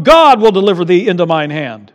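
loud King James declaration; mock biblical prophet. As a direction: proclaim it like scripture. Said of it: "declarations of faith".

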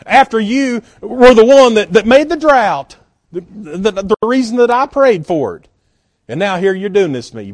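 hammed-up fury at being let down; mock angry complaint. Elijah, imagined stomping around, ranting at God, mock angry. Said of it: "got all mad and started stomping around saying".

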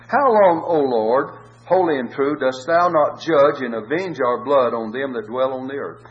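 loud cry. Acted. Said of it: "they cried with a loud voice".

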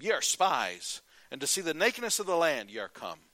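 loud, stern accusing voice; stern accusation. Acted. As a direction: Joseph booming down at the strangers. Joseph accuses his brothers.

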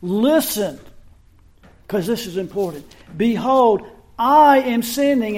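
a hint of a mother getting her child's eyes on her; firm, rising insistence to look and listen; mother calling children to attention. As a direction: parent holding the children's gaze before a warning. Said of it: "Sort of like a mother when she's".

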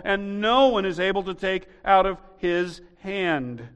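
loud, high, driving sermon voice; fiery preaching. Acted. Pastor preaching hard to the congregation, fiery. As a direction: preach it out with rising force.

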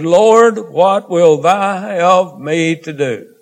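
a high cry of "Lord", then a slow, drawn-out plea; trembling and astonished. Acted. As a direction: cry out to the Lord in awe, then ask slowly. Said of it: "And he, trembling and astonished".

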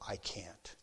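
breathy whispered refusal; whispered plea. Retold or imitated. Jaylene pleading with her coaches, whispering.

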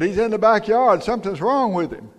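a hint of an anxious child; lightly voiced worried son. Son answers his dad about the dog, mildly alarmed. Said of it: "his son came in and said".

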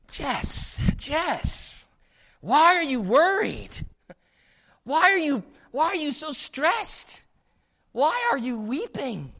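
high, drawn-out mock bafflement; slow, high-pitched incredulous pleading; perplexed. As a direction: play an exasperated angel calling down. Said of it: "the angels are perplexed by our unbelief".

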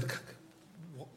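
soft, halting plea; pleading. Acted. Believer pleading with someone to see it, halting plea. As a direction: stammer out a quiet plea. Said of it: "Have you ever pleaded with someone".

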